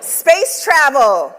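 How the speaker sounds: slow, emphatic prompt; emphatic call-out. Acted. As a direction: call it out slowly to the crowd. Prompting audience call and response.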